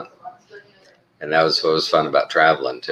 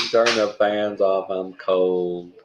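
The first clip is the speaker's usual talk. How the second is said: imitating wife; 3 semitones higher, slower than usual. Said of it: "and she's".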